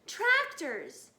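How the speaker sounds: high loud alarm shout. A narrator's reading. Mister Fox shouting to his family. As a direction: sound the warning. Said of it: "shouted Mister Fox".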